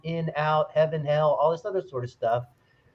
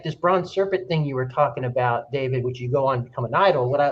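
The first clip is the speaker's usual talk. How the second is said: normal talking voice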